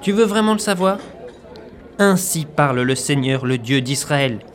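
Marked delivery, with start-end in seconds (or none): 2.0-4.4 solemn prophetic proclamation; preaching. Acted. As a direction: thunder it like an Old Testament prophet.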